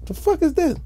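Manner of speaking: disappointed fan. Retold or imitated.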